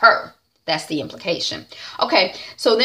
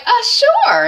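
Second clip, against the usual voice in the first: high, loud hesitant "sure"; caught off guard; 7 dB louder than usual. Acted. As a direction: squeak out an unwilling yes. Mary Jane reluctantly handing over password.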